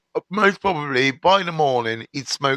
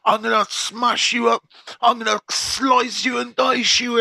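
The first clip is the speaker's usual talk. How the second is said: raised, ranting threats; furious threats; 4 semitones higher than usual. Retold or imitated. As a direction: rant like an angry inmate. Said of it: "He's like".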